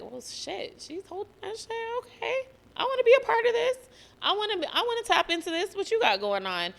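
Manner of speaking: high, eager, fast gushing; impressed onlookers. Retold or imitated. People who see her holding it, gushing high and fast. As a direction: mimic people won over and hyped.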